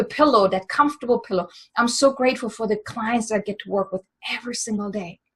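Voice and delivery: mean every word of it; with feeling. Shown as a demonstration. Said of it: "Really say it with feeling".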